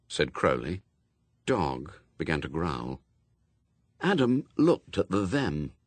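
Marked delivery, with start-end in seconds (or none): none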